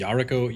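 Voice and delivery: "Yariko" with stress up front on YAH; "Yariko" with a short, weak middle syllable; shifting name pronunciation. Shown as a demonstration. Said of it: "change the way I pronounce your, your name".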